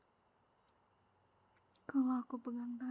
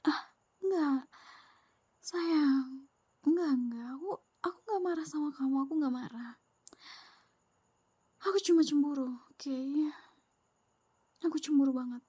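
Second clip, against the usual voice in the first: flustered jealous protest; 2 semitones higher, 5 dB louder than usual. Acted. Flustered denial of being angry.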